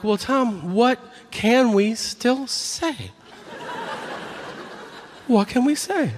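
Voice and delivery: mock whiny audience.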